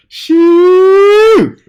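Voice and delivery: high cackling "Shoot!"; loud laughing shout. Real, not acted. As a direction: burst out laughing loudly. Laughing outburst.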